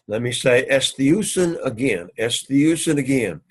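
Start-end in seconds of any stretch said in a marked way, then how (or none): 0.7-1.6 "estiusen" sounded out as es-THEE-u-sen; careful Greek pronunciation. Shown as a demonstration. Teacher repeating a Greek word for students, careful pronunciation. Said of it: "you need to pronounce the words". 2.2-3.0 "Estiusen" repeated clearly as es-THEE-u-sen; careful Greek pronunciation. Shown as a demonstration. Teacher saying the word once more for students, careful pronunciation. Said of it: "you need to pronounce the words".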